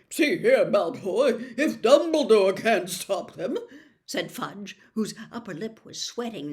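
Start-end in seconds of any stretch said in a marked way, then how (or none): 0.1-3.6 nervous protest. A narrator's reading.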